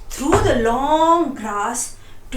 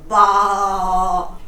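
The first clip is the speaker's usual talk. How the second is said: sheep bleat; 5 semitones lower than usual. A narrator's reading. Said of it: "The sheep sounded worried".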